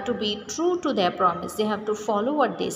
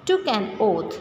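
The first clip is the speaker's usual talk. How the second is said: put-on reading a fable aloud to children; story reading. A narrator's reading. Teacher reads the story aloud.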